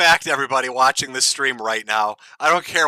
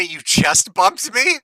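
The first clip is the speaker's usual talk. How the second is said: incredulous quote; 5 semitones higher, slower than usual. Retold or imitated. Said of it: "Did he just say".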